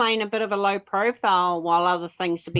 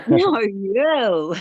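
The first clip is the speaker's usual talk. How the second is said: New Zealand accent; 3 semitones higher, 7 dB louder than usual. Real, not acted. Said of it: "What's it like with a New Zealand accent".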